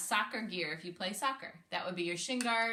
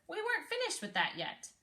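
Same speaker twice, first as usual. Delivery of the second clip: upset camper; 10 semitones higher than usual. A narrator's reading. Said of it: "yelled a camper".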